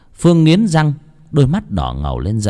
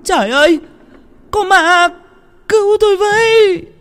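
shrieking cry, far higher and louder; screaming for help; 4 dB louder than usual. Acted. Cook and Thúy flee the ghost, terrified screaming. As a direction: scream in terror as you flee. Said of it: "vừa la hét".

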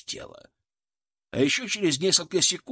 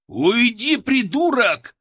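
loud, much higher snarl; angry bark; 9 semitones higher, 7 dB louder, slower than usual. A narrator's reading. Sapper snarling at the prisoner in his way. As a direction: bite his head off. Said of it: "рявкнул сапёр".

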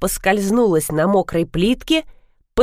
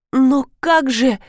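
ordinary delivery, nothing marked

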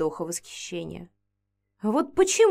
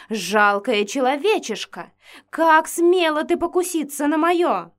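crush the rival with fury; enraged threat; 6 semitones higher, 6 dB louder than usual. Acted. Vampiress rages at the human girl, furious.

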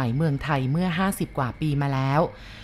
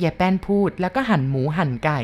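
ordinary delivery

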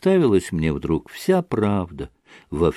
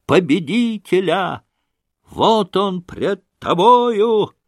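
triumphant cry; 8 semitones higher, slower than usual. A narrator's reading. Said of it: "кричу ему".

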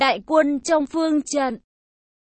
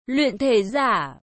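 startled low cry; surprised exclamation; 3 semitones lower, slower than usual. A narrator's reading. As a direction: gasp it out in surprise. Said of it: "kinh hô một tiếng".

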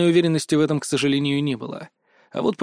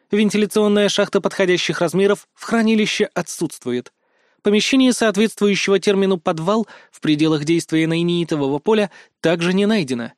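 assistant's system report; 3 semitones higher than usual. Acted. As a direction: deliver it like an automated negative result.

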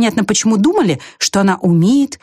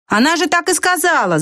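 crowd shout; 9 semitones higher than usual. A narrator's reading. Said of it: "закричали все".

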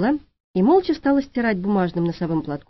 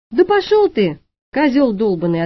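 rude retort; 3 semitones higher, 4 dB louder than usual. Acted. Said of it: "ответила Шура".

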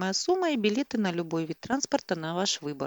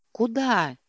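higher, louder challenge; raised voice; 6 semitones higher, 5 dB louder than usual. A narrator's reading. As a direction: raise your voice back at her. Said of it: "тоже повысил голос Макс". (повышая голос)

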